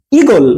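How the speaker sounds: ইগল said short, first vowel brief. Shown as a demonstration. Teacher explaining the pronunciation difference, ইগল said short. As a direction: cut the opening "i" of ইগল short. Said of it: "শর্টকাটে".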